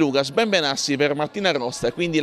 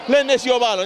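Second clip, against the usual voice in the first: rising play-by-play call; excited commentary; 5 semitones higher than usual. Acted. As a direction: build up on each post.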